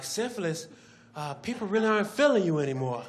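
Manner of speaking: hesitant employee; lightly voiced nervous worker; timid bad news; Mark's voice. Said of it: "Mark is like".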